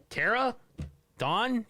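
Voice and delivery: high call of the friends' names. Retold or imitated. Recapping Victoria calling for her friends, high call. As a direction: call out hopefully into the dark. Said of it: "she's like".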